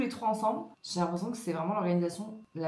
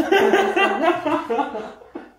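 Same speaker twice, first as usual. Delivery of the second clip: loud burst of laughter; big laugh; 10 semitones higher, 11 dB louder than usual. Real, not acted. (gros éclat de rire)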